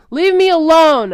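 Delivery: screamed high and loud through tears; screaming through tears; tearful scream. A narrator's reading. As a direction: scream it out, sobbing. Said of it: "I screamed at him through my tears".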